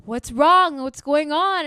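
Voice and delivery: worried mother questioning her sick daughter; worried mom. Retold or imitated. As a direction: ask fast and worried, like a scared parent. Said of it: "more worried than pissed".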